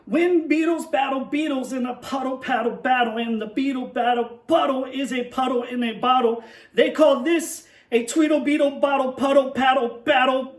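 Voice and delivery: loud, racing tongue-twister read; breathless shouted twister. Shown as a demonstration. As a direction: belt it out as the words pile up. Tongue twister at full tilt.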